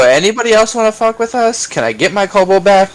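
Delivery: high, needling challenge; acted challenge. Kobold's keeper to the crowd after the headbutt, acted taunting challenge.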